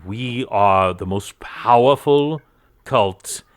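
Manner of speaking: slow, grandiose proclamation; pompous cultist. Acted. Cult member announcing his order to captors, slow and grandiose. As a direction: boast with drawn-out self-importance. Game master plays boastful cultist.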